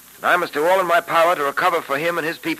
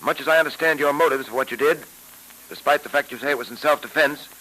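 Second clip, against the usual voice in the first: put-on old radio show. Old-time radio drama episode.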